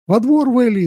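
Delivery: wife snapping at her husband; hint of a furious yell; angry shout. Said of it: "зло крикнула ему в лицо жена".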